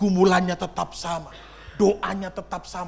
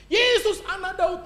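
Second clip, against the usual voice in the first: high cry of Jesus' name; loud plea; 11 semitones higher, 3 dB louder than usual. Pretend. Preacher modelling how the congregation should cry to Jesus, loud plea. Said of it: "semakin keras kau teriak sama Yesus".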